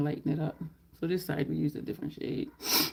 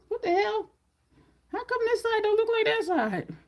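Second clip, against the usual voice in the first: exasperated disbelief; 3 dB louder than usual. Real, not acted. Frustrated at uneven makeup.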